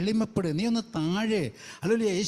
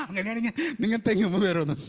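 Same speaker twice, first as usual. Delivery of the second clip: quick, amused punchline with a laugh; laughing retort; faster than usual. Shown as a demonstration. Preacher joking to the sisters about climbing coconut trees, laughing. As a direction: tease it with a chuckle.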